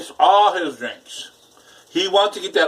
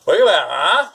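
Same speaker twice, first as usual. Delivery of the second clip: higher, louder delighted exclamation; excited; 6 semitones higher, 6 dB louder than usual. Real, not acted. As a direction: gush over the sizzling food. Excited at snow and food.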